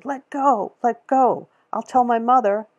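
put-on high, loud child's yell; shouting girl. A narrator's reading. Girl shouts at the store lady gripping her collar, loud and high. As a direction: scream it while struggling free. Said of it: "the girl was hitting at her and shouting".

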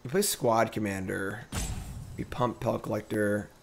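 popping crackly microphone; crackling usb mic sound. Real, not acted. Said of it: "The mic is popping".

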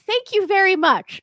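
mildly hammed-up starstruck thanks; tongue-tied fan. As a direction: blurt it out like a flustered fan. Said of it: "so I was just like".

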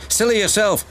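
high-pitched peevish comeback; grumbling. A narrator's reading. Ben answers his twin back, grumbling. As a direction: throw it back in a high childish voice. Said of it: "grumbled Ben".

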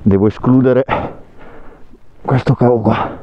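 muffled through a helmet; talking under a full-face helmet; inside a helmet. Real, not acted. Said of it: "adesso mi devo levare il casco".

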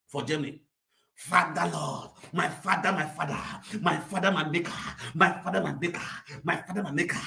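low, pleading mock night prayer. Woman abroad praying for her documents, in a low mock plea. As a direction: murmur a hammed-up plea to God.

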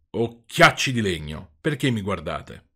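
a touch of slow offended reproach; resentful. Acted. Geppetto mildly resentful toward the puppet's eyes. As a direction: mildly scold the staring wooden eyes. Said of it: "disse con accento risentito".

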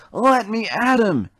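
high, loud, slow angry yell; furious cry. A narrator's reading. Thomas yells at Percy and Toby, furious and loud. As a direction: strain against them, raging. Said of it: "Thomas cried".

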